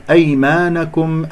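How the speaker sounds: أيمانكم read "aymanakum"; fatha on nun. Shown as a demonstration. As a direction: sound an a after the nun in أيمانكم. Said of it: "النون مفتوحة".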